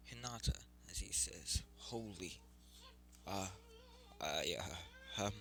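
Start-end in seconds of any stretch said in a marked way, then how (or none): 1.8-5.3 flustered stammer with softer, halting words; stuttering. Acted. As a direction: trip over the words, starstruck. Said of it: "as he begins stuttering".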